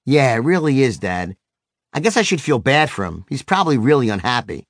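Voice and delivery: understated pity from a calmed-down son; sympathetic tone. Retold or imitated. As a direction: gently concede with a touch of sympathy. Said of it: "in a tone as sympathetic as mine".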